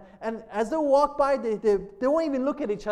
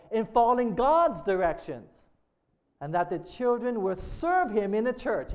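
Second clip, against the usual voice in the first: measured preacher reading aloud; resume the quotation with weight on key words; emphatic sermon reading; 3 semitones higher than usual. Real, not acted.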